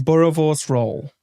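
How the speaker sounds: "Boerewors roll" said slowly, South African style; South African pronunciation. Shown as a demonstration. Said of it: "very lightly".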